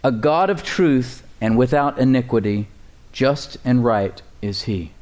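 slow, weighty reading of scripture. Real, not acted. Pastor reading the verse to the church, slow and weighty. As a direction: lean on each word of the verse. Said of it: "Look at the words here with me".

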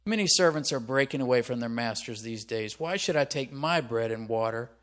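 surly, emphatic challenge. Acted. Nabal answering David's servants, surly. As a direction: put on a surly, dismissive tone. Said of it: "trying to be surly here".

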